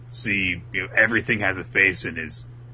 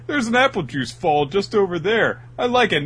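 dude voice; 12 semitones higher, 5 dB louder than usual. Acted. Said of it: "He's like".

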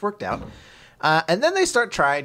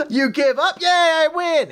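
high, louder gleeful squeal; mock cheer; 12 semitones higher, 4 dB louder than usual. Girl cheering that she won the game, high squeal. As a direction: celebrate like she just won.

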